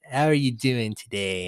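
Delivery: little squeaky Tammy Faye voice. Retold or imitated. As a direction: chirp it in a tiny squeaky voice. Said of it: "this little squeaky voice like this".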